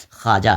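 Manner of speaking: teacher's clear خواجہ, pronounced "khaaja"; silent vao. Shown as a demonstration. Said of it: "یہاں بھی واو کو ہم پڑھ نہیں رہے ہیں".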